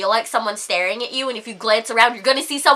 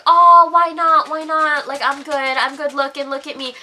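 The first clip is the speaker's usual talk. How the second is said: mock coaxing. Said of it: "try to convince you to dance with them".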